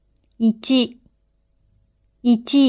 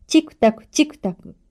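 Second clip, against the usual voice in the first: チクタクチクタク higher and faster, like a small clock; quick, high ticking on チクタクチクタク; 4 semitones higher, faster than usual. Shown as a demonstration. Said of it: "小さい時計は".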